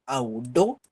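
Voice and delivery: "Aurora" con la sílaba central "ro" marcada; sílaba tónica marcada. Shown as a demonstration. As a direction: separa "Aurora" por sílabas, apoyando "ro". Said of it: "do es la sílaba tónica". ("Aurora" silabeada, con tono de pregunta al final)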